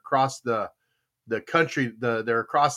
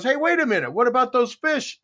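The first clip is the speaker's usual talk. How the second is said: higher, calling after him; game warden; 9 semitones higher than usual. Retold or imitated. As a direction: catch him before he leaves. Warden voiced in joke.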